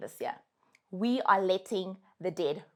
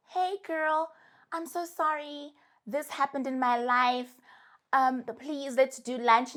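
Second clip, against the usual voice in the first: mock apologetic friend; 3 semitones higher than usual. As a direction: imitate a sugary excuse to get back in. Mocking the ghoster's apology.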